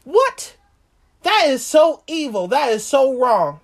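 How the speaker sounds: squealing high disbelief with a laugh; shocked outrage. Retold or imitated. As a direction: play David's stunned indignation. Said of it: "he was like".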